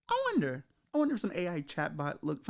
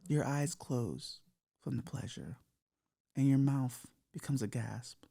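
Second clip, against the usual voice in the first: sultry cyber demo; 4 dB quieter than usual. Shown as a demonstration. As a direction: breathe the last words as an intimate whisper. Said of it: "That's how you do it".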